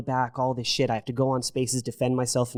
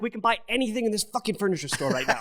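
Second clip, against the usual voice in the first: giggling through it, much higher; half-laughing boast to the wife; laughing excitement; 9 semitones higher than usual. Retold or imitated. Quoting what he told his wife in the store, laughing giddily. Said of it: "I look at my wife and I'm like".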